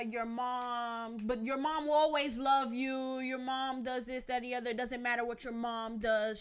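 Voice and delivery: preachy relative voice; lightly lecturing family member; mocking relatives. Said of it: "certain parts of my family are like".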